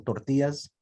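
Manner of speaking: TORTILLAS with a Spanish accent; lightly put-on Spanish pronunciation. Shown as a demonstration. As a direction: say "tortillas" as a Spanish speaker would. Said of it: "do you add the accent".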